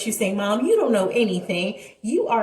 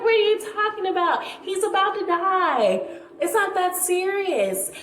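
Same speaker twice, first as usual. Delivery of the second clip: dismissive brush-off; 8 semitones higher than usual. Retold or imitated. Brushing off jealous ex.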